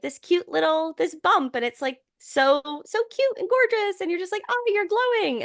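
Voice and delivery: high, sing-song mock gushing. Friend gushing over an idealized cute pregnancy bump, mock gushing.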